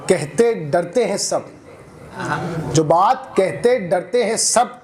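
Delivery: slow, measured mushaira verse delivery; poetry recitation. Acted. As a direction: recite it line by line, pausing and lifting repeats. Recites a protest poem.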